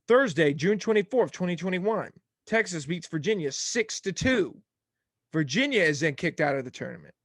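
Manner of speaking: breathless, reading fast; puffing between words; out of breath. Real, not acted. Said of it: "I'm out of breath".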